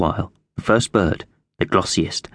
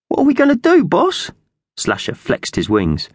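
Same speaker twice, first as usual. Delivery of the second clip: loud, very high squawky question; doubtful magpie henchman; 4 dB louder than usual. Acted. Slasher questions the boss.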